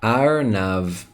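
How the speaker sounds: "Arnav" in two separated syllables; careful model pronunciation. Shown as a demonstration. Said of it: "Say it with me".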